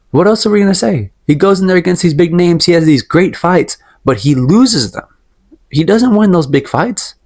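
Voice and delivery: getting riled up about the fighter, slowing to drive the point home; worked up. Real, not acted. Vlogger gets worked up ranting about Chandler's losses, heated. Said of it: "I really was emotional about that".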